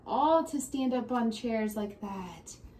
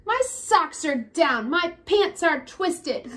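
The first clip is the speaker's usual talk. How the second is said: put-on whiny child; 5 semitones higher, 6 dB louder, slower than usual. Child character complaining in story.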